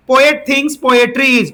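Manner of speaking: very slow, word by word dictation; teacher spelling out the question for students to write, slowly. Shown as a demonstration. Teacher dictating the exam question to students, very slowly. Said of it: "reads the question aloud slowly".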